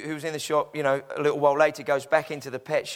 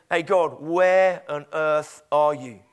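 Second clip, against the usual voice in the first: slow, drawn-out disbelieving demand; exasperated questioning; 3 semitones lower, 3 dB louder, slower than usual. Acted. A rejected man calls out to God, exasperated. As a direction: stretch it out as a baffled appeal.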